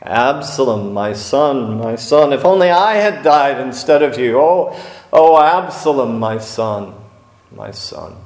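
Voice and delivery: a father's broken lament; grieving cry. Acted.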